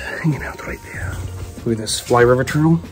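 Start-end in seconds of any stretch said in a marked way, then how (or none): 0.0-1.1 whispering. Real, not acted. Whispering beside snake.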